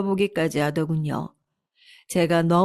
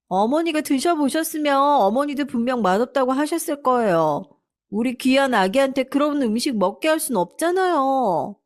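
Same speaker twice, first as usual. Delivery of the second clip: higher, cheeky and self-justifying; defiant daughter-in-law; 6 semitones higher than usual. Acted. Daughter-in-law answering her mother-in-law, defiant. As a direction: talk back without a hint of shame.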